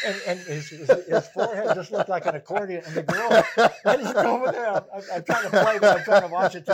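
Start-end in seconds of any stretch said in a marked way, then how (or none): 3.9-6.7 laughing hard through the words, loud and high; can barely get it out for laughing; real laughter breaking into the story; laughing while telling. Real, not acted. Laughing through his own story.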